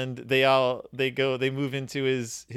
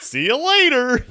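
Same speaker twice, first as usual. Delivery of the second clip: higher, louder, laughing through it; laughing echo; 11 semitones higher, 7 dB louder than usual. Real, not acted. Laughing as he repeats the co-host's punchline. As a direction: giggle it back.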